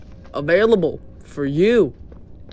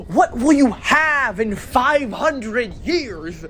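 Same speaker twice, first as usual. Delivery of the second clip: slow dramatic voice; 5 semitones higher, slower than usual. Acted. Rhetorical challenge to chat.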